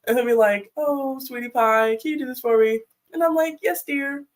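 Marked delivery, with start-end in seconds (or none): 0.8-2.8 mock-sweet request. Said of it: "like, a joking manner". 3.6-4.2 jokingly sweet compliance. Retold or imitated. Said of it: "like, a joking manner".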